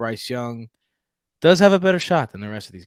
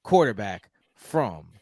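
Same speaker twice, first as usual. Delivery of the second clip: put-on Houston accent; 2 semitones higher than usual. Houston native announces the Texans draft pick in his Houston accent. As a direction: play a proud Houston Texan making the pick, with a Texas accent. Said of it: "This is my Houston accent".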